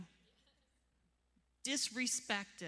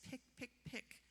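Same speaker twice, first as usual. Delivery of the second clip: 1 hushed repeat; 3 semitones higher, 10 dB quieter than usual. Real, not acted. Repeating pick for emphasis.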